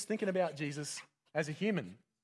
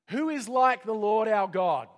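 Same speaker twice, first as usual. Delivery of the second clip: slow, much louder, higher proclamation; proclaiming psalm; 6 semitones higher, 10 dB louder, slower than usual. Acted. Preacher quoting the Psalms to the congregation: slow, loud proclamation. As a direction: ring it out like a declaration.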